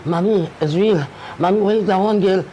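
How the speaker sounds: an upset son begging his mother for answers; distressed son. Retold or imitated. Son rushing in to his mother, distressed and pleading.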